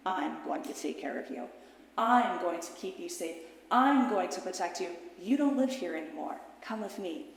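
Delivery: put-on gentle, steady comfort to a frightened child; reassuring promise. Adult self promising her younger self safety, tender and steady.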